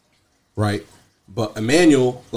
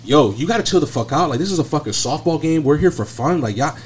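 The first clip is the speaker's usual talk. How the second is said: heated telling-off; 4 semitones higher than usual. Retold or imitated. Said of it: "Josh was going crazy".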